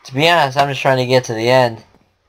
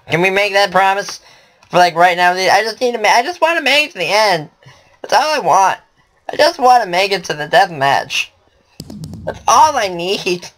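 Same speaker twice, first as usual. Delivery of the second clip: pleading for a truce, pitched up; high pleading; 4 semitones higher than usual. Real, not acted. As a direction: beg the other player to spare you. Begging an enemy to spare him.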